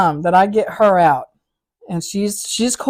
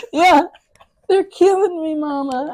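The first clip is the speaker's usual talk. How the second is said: imitating him; 10 semitones higher than usual.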